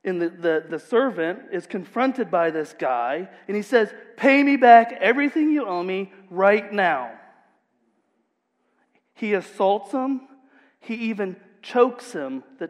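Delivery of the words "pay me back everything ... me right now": loud, harsh demand. Acted. Servant to his debtor, angry demand. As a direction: bark the demand for money.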